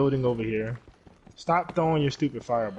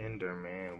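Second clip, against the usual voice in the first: much softer, lower, almost cooing the name; hushed coaxing; 5 semitones lower, 10 dB quieter than usual. Real, not acted. Gamer softly coaxing the Enderman by name. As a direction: lean in and murmur it gently.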